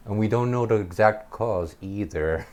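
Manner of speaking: lightly imitated lecturer; a hint of mock university lecture; lecturing. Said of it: "like she's giving a lecture".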